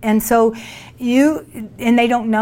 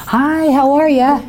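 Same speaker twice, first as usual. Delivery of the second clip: louder, slowed hello, pushing to be heard; louder greeting; 5 semitones higher, 5 dB louder than usual. Retold or imitated. Greeting the ignoring man a third time, louder and slow. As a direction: call the greeting out so he cannot miss it.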